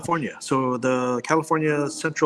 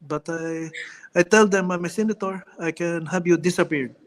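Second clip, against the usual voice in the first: Manny Pacquiao impression; 3 semitones higher than usual. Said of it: "you gotta do the Filipino, uh, Manny Pacquiao, uh, impersonation".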